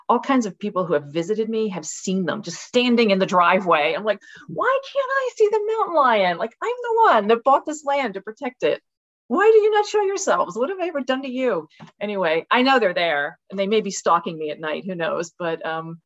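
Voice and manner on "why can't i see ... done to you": mock plea to mountain lions.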